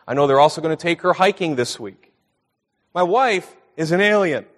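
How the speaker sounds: ordinary talk, nothing marked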